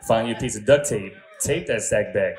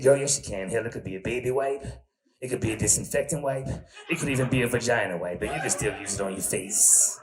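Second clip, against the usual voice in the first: T Tina voice. Retold or imitated. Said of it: "voice like this".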